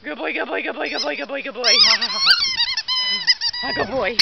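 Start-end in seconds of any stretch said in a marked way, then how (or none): 1.6-4.2 very high squeaky laugh and praise; squeaky praising a dog. Real, not acted.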